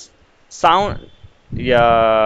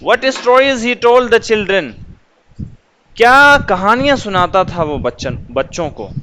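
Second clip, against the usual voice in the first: put-on What stories he told the children said as an exclamation, higher with rising wonder on told; exclaimed in wonder; 4 semitones higher than usual. Shown as a demonstration. Teacher demonstrates the exclamation mark to students, exclaiming in wonder. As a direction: marvel at it, don't ask it. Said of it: "تعجب کے لیے".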